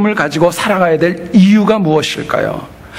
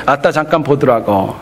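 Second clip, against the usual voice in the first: Jeolla dialect; 3 semitones lower than usual. Retold or imitated. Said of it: "전라도 분들은".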